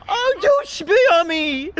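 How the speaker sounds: high, loud, slow whiny mimicry; high mock whine. Commentator mimicking the migrant's plea, slow high mock whine. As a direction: ham up the man's plea, slow and shrill-high. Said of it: "quoting the man".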